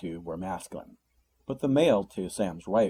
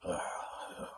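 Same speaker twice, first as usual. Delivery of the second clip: annoyed sigh; 11 dB quieter than usual. A narrator's reading. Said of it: "the creature sighed with the annoyance of ennui".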